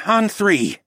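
measured, steady voice; calm agreement. A narrator's reading. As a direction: confirm the plan coolly. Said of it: "Tawa agreed".

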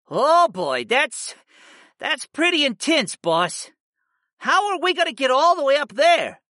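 high-pitched, daunted creature sidekick voice; high cartoonish beast voice, taken aback; astonished cat familiar. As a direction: play the cat monster thrown by the news.

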